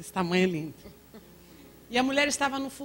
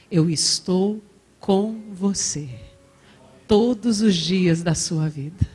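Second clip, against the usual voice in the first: slow, loud fervent promise; full-force pulpit declaration; preaching at full force; 3 semitones lower, 9 dB louder, slower than usual. Acted. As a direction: drive each word home to the congregation. Preaching climax.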